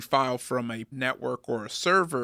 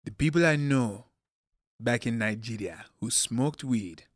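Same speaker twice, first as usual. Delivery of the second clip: quoting dad; 3 semitones lower than usual. Retold or imitated. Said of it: "and I quote".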